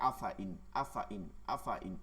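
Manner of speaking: আফা ইন read short with no stretched alif; no madd on alif. Shown as a demonstration. Quran teacher showing students the short আফা ইন. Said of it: "তারা এভাবে পড়ে".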